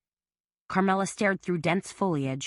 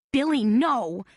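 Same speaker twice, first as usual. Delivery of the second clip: pleading; 7 semitones higher, 4 dB louder, slower than usual. A narrator's reading. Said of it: "Carmela pleaded".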